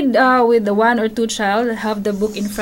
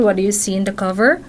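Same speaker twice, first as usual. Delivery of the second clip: put-on bright questioning tone for a child; gentle prompting of a young reader; asking a child, reading aloud. Shown as a demonstration. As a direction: coax the child to guess the story. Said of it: "And then you ask question firsthand".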